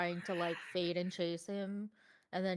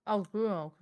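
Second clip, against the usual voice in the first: crunching chips; 3 semitones higher, 3 dB louder than usual. Real, not acted. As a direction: mouth full of chips. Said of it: "I'm eating chips".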